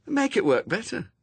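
high-pitched character voice; bright urging. A narrator's reading. Anathema prompting a puzzled Newt, high urging. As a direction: urge it in a lifted voice.

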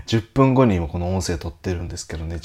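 groggy morning voice; just woke up. Real, not acted. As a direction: sound freshly out of bed. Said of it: "寝起き声を、お許しくださいませ". (寝起きの声)

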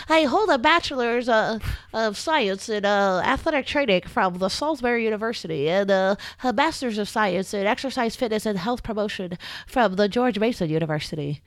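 formal nerdy recital of credentials; nerd voice. Pretend. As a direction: read your degrees like a stiff nerd. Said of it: "You better say it in that nerd voice".

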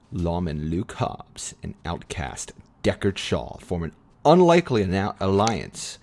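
measured movie-synopsis read. Real, not acted. Host reading listeners the premise before a clip, measured synopsis read. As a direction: read out the film's premise like a presenter.

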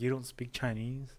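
slow question with rising end; mock incredulous question. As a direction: draw it out in pretend astonishment. Same presumptuous question, another target.

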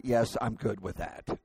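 low, soft, compliant imitation of wife; very kindly. Wife agreeing to husband's rushed plan, very kindly. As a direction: give in gently and quietly. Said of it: "my wife said very kindly".

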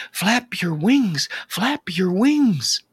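high, loud, slow urging; pleading. A narrator's reading. Mama bird to baby caught by frog, loud drawn-out pleading. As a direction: plead loudly, stretching out each word. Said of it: "The mama bird pleaded".

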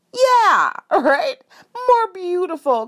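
high laughing yes to dad; giggly yes. Retold or imitated. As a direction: giggle through it.

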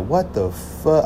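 slow, quiet what the fuck; stunned disbelief. Retold or imitated. Realizing the girls are mocking him, slow quiet disbelief.

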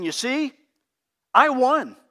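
mock triumphant boast; gloating taunt. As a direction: crow over the win like a smug victor. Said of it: "that comes across as saying".

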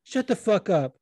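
imitated berating. Cornerman chewing out his fighter between rounds, mock berating. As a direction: get on his case like an irate cornerman. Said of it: "doming the fuck out of Fernie Garcia".

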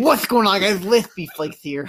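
mock lispy streamer greeting; YouTuber intro impression. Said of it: "what did we always make fun of him say".

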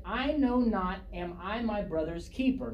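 high start, sarcastic questioning comeback; sarcastic retort. Acted. Cain answers the Lord about his brother, mildly sarcastic. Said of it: "that would be sarcasm now".

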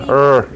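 "er" drawn out with an E-like vowel and R; English er ending. Shown as a demonstration. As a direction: model the non-British "er" ending. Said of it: "con una E".

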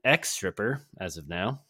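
mock British surfer accent with drawn-out words; badly faked surfer-European accent; Zach as British surfer. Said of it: "British surfer".

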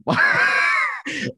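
a high breathy shriek of laughter; high cackle at his own joke; shrill laugh. Real, not acted. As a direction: burst out in a squealing laugh.

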